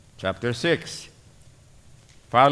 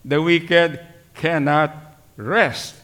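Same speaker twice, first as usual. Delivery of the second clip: slow emphatic repeat; slower than usual. Shown as a demonstration.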